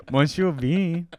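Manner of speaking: put-on Monsieur Bean in a vague Mexican accent; vague Spanish accent. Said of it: "in a vaguely Spanish slash Mexican accent".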